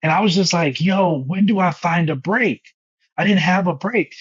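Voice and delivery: high, exasperated overwork rant; high exasperated list. Real, not acted. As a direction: rattle off the workload high and fast. Pitched up listing overwork.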